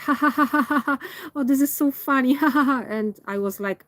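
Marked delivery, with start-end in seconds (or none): 0.1-2.8 higher-pitched imitation of childish guys cracking up; mocking laughter. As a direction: mimic immature boys laughing at their own joke. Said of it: "they were laughing about it".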